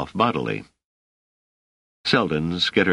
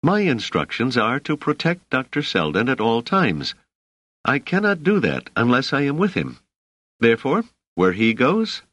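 irritated, pitched higher, pressing each point; a touch of sharp irritation, insisting; lightly voiced bodyguard, firm and annoyed; clear irritation; 8 semitones higher than usual. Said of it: "said Dors with clear irritation".

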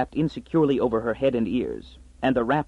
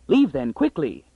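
shouting; 3 semitones higher than usual. Acted. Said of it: "shouting over her shoulders".

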